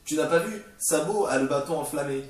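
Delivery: high, pushy know-it-all; mock a viewer pointing out the obvious; indignant commenter. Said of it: "quelqu'un qui prépare à écrire son commentaire".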